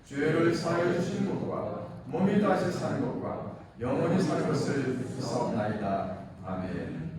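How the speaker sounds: formal, measured recital of the creed; creed recitation. Acted. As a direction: recite it solemnly as a congregation's confession of faith.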